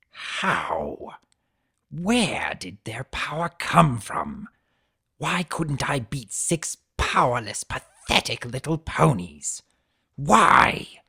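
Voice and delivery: bellowing in rage. Acted. Defeated centaur bellowing at his fate in rage. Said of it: "he bellowed in a rage".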